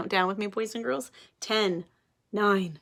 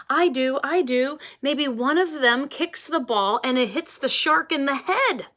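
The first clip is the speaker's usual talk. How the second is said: eager volunteering; 5 semitones higher, 3 dB louder than usual. Acted.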